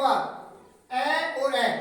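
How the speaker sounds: ए और ए drawn out, very slow; very slow demo. Shown as a demonstration. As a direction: say each ए slowly for the class. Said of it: "slow demo of vowel joining". (बहुत धीरे धीरे उच्चारण)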